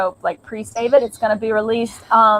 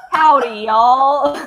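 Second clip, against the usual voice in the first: Howdy, y'all broken up with laughter; laughing; 4 dB louder, much slower than usual. Real, not acted. Guest laughing at the host's accent attempt while saying the title. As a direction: laugh through the words.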